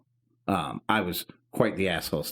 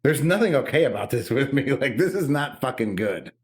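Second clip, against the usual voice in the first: higher-pitched, emphatic exasperation; exasperated protest; 5 semitones higher, 3 dB louder than usual. Retold or imitated. Sibling objecting to brother's war jokes, exasperated protest. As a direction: retell an upset objection with rising insistence.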